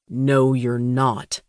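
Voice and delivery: slow, flat, unyielding no; firm refusal. Acted. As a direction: lay down the law slowly. Steely bodyguard refuses her.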